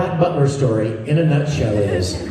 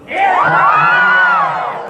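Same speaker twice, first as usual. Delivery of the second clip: much higher, louder whoop of joy; excited shout; 6 dB louder than usual. Real, not acted. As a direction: cheer it out loud for Ruby. Cheering for Ruby.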